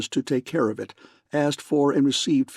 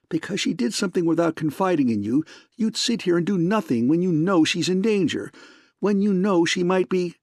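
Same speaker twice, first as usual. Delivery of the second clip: angry; 6 semitones higher than usual. A narrator's reading. She berates Spade.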